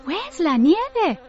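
high, drawn-out, surprised question; startled cry. Acted. Tilly wakes to find the snow gone, startled cry. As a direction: cry out slowly, pitched well up. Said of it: "cried Tilly".

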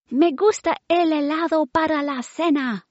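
high, loud eager bellow. Acted. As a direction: belt it out with greed for ice cream. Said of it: "bellowed Wilma".

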